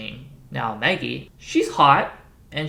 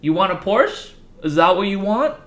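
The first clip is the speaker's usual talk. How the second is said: mocking laugh; 3 semitones higher, 5 dB louder than usual. Dad laughing in his son's face, loud and mocking. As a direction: taunt your son with a cruel laugh. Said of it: "Dad laughs in his face like".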